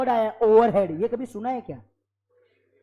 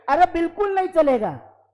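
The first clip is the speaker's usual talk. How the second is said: emphatic no; 5 semitones higher, 6 dB louder than usual. Acted. Teacher scolds exam mistakes emphatically.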